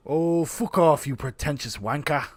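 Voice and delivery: a second go at the London put-down; English accent. Pretend. Retrying the English accent on Sasha. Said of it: "I'm not good".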